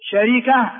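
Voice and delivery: شركة as sha-ri-ka, all vowels kept; original form shareeka. Shown as a demonstration. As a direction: say شركة with the middle vowel: sharika. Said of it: "هو الأصل". (شركة بكسر الراء: شَرِكة)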